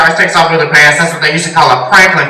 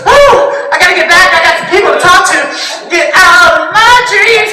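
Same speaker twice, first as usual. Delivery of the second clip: spooky ghost; 11 semitones higher than usual. Pretend. Comic voicing a ghost leaving the afterlife, high hammed-up wail. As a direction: moan like a cartoon ghost. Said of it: "it's like".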